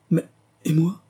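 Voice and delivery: high, anguished question; wailing cry. A narrator's reading. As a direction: cry out for yourself, pitch jumping up. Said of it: "hurlait Bertie Arkwright".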